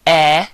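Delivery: E said as a long "ee"; E as a pure, held "ee" for Spanish I. Shown as a demonstration. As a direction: say E like the vowel in ski. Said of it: "the I is pronounced E".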